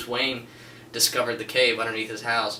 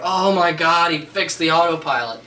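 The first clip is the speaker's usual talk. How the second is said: higher and louder, thrilled; excited realization; 5 semitones higher, 6 dB louder than usual. Retold or imitated. Viewer realizing Batman fixed the autopilot, excited. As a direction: blurt it out, suddenly thrilled. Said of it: "You're like".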